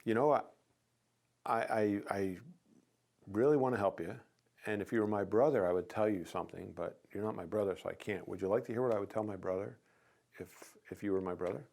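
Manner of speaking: gentle reassuring pitch; softened gentle. Shown as a demonstration. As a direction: ease the blow gently like a friend. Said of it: "I could soften that blow by saying".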